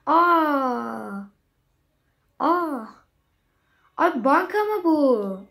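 sudden loud surprised gasp. Real, not acted. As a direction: caught off guard. Bankaya şaşırma. (şaşkın nida)

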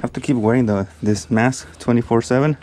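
winded, talking in short bursts with pauses; out of breath. Real, not acted. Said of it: "I'm a little out of breath".

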